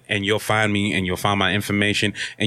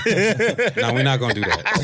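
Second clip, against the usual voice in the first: laughing; 3 semitones higher, slower than usual. Real, not acted. Laughing off a creepy come-on.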